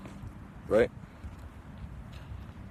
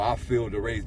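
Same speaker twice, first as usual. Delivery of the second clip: lowered ominous sensing; 8 semitones lower, 3 dB quieter than usual. Retold or imitated. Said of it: "We be like".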